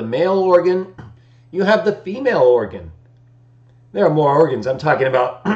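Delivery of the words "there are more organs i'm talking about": morning voice. Real, not acted. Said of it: "Didn't get my morning voice going".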